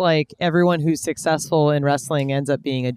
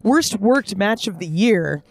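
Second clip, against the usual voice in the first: rushed breathless list; all in one breath. Shown as a demonstration. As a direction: rattle it off without breathing. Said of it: "I'm gonna try and go through this in one breath".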